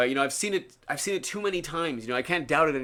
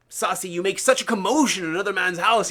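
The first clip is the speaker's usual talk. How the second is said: louder, higher retold reprimand; raised-voice telling-off, acted; mock scolding; 4 semitones higher, 5 dB louder than usual. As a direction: scold him as an exasperated guru would. Retold guru scolding disciple.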